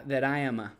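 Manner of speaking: "that I am a" run together as "tha-tai-ya-ma"; linking. Shown as a demonstration. Teacher showing consonant linking to vowel, words joined. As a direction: join the final t of "that" onto "I". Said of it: "this links".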